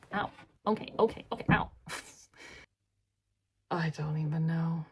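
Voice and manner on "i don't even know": airy unvoiced half-laugh; whispered. Real, not acted. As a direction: give up with a breathy laugh.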